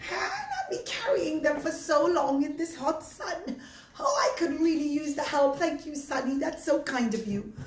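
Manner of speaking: lightly voiced weary old lady; mildly hammed-up tired old woman. Old woman complains of her load.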